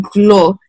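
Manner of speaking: "glo" with an initial G; G pronunciation. Shown as a demonstration. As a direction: say "glo" starting on a hard G. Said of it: "some people say it with a G".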